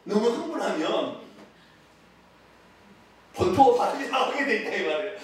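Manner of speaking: ordinary delivery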